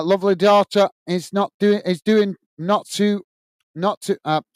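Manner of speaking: stumbling over "is doing not too", words jumbled and restarting; tongue-tied stumble. Real, not acted. Wishing Rick's daughter well, tangled in his words, tongue-tied. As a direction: trip over the words and lose the thread. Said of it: "I'm getting tongue-tied here".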